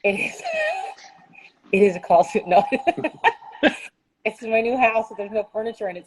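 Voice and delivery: echoing in an empty room; echoey room. Real, not acted. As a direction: talk in a bare, empty room with echo. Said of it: "apologize if it's really echoey in here".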